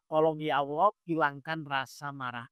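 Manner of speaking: soft plea, slowing as it drops; pleading prayer. Acted. Ustadz models asking Allah for help, quietly pleading. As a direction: ask God gently, letting the words sink. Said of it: "Ibu baru berdoa".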